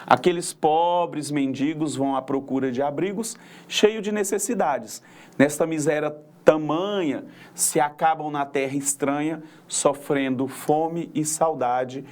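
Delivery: lightly recited verse, slowing at the end; poem reading. Acted. Reads cordel verses aloud. (leitura leve de poema)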